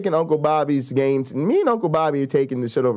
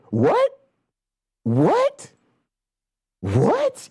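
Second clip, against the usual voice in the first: mock surprise; 8 semitones higher, much slower than usual.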